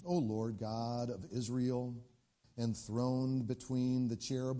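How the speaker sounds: slow, reverent prayer voice; prayer reading. Acted. Hezekiah praying to the Lord at the altar, reverent. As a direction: read it slowly, like a prayer.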